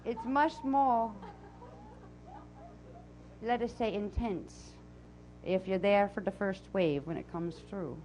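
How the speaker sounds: put-on channeled voice with a Transylvanian accent; Azara's Transylvanian accent. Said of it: "I'll come back from my, uh, Transylvanian accent".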